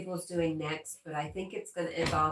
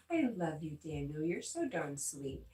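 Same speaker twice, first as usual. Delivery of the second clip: tender thanks. Real, not acted. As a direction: let each word land gently, meaning it. Thanking viewers Daniel and Paul.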